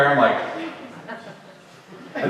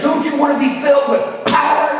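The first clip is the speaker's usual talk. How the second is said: mock revival preacher, pitched high; fired-up preacher; 9 semitones higher than usual. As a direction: imitate a preacher urging the crowd on. Imitates preacher punching the word power.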